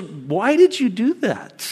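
amazed question. Retold or imitated. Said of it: "he's, like, blown away".

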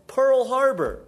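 blunt one-word justification; curt retort. Acted. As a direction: snap back the reason as if obvious. Jewish guy's curt punch explanation.

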